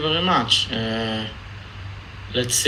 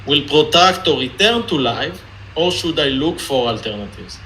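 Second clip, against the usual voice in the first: Israeli accent. Shown as a demonstration. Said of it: "reading it in an ex-, Israeli accent".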